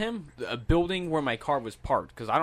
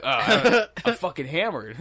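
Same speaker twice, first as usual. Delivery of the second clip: laughing; 4 semitones higher, 5 dB louder than usual. Real, not acted. Drunk retelling, laughing.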